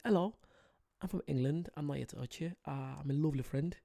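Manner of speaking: put-on a light, playful English accent, barely shifted from her own voice. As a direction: sweetly reassure a bison in a gentle English accent. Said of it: "Should I give them an English accent?".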